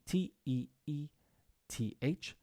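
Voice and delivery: teething spelled letter by letter; teacher spelling the word teething. Shown as a demonstration. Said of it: "spelling teething".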